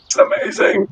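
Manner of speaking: very high, tiny awed voice; starstruck child. Acted. Child given a superhero's autograph, high squeaky wonder. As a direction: squeak it like a little fan. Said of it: "their favorite fucking superhero".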